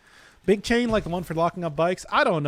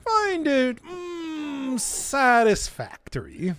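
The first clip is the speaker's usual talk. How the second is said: mock haughty judge; 8 semitones higher, much slower than usual. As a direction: deliver it like a pompous critic. Mock judgment of chat.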